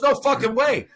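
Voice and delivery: high-pitched, incredulous outburst; retold disbelief. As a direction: act out someone's amazed reaction. Retold astonished reaction to news.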